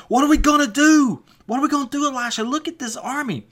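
high-pitched panicked cry, acting out a frightened servant; freaking out. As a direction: play a servant in a hammed-up panic, voice shooting up. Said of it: "he starts freaking out".

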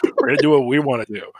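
mock stubborn refusal, quick and brash; defiant Australians. Australians refusing the others, mock defiant. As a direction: brush them off, quick and cocky. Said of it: "the Australians are like".

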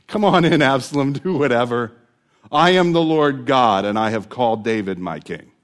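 a lightly voiced, loud, confident Lord; God's voice. The Lord unbothered as Absalom takes the palace, loud and confident. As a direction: boom it out like God unbothered by Absalom.

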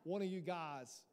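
slow stab at an Italian mobster; drawn-out, badly faked Italian mob accent; botched Italian mob voice. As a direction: try the Italian mafia voice and butcher it. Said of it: "I can't do that Italian mob voice".

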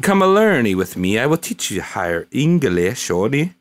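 playful put-on anime boy voice; hammy anime boy accent. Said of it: "speaking like a Japanese anime boy".

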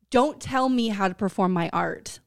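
huffy mock offense; mock offended diva. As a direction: play the wounded artist. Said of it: "is like".

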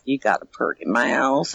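a hint of hillbilly from Deliverance. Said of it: "I start doing Deliverance. I start talking like".

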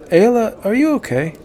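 incredulous hunter. A narrator's reading. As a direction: ask if she's lost it.

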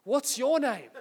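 "What's your name?" echoed back, embarrassed and laughing; foolish echo. Retold or imitated. Young pastor blurts the question back, laughing. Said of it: "I just foolishly said".

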